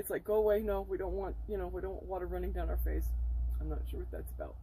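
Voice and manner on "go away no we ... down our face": loud, raised playful protest; mock shooing. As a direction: shoo the tears away out loud in mock fuss. Playfully voices shooing away tears.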